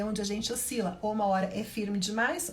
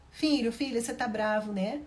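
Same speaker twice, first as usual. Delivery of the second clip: gentle mother. Shown as a demonstration. Mother gently soothing her son who wants cartoons. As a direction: comfort the upset child gently. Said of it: "Eu estou sendo gentil com a criança".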